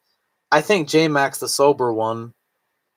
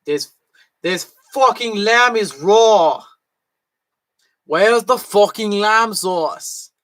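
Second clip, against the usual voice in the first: slow, loud, higher raging chef rant; Gordon Ramsay impression; 7 semitones higher, 4 dB louder, slower than usual. Streamer doing a celebrity chef yelling at his cook, slow and loud. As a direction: bellow it like a furious TV chef over raw lamb. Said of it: "talking like Gordon Ramsay".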